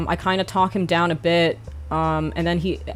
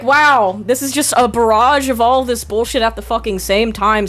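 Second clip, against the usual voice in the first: exasperated disbelief; 4 semitones higher, 5 dB louder than usual. Retold or imitated. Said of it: "I was just like".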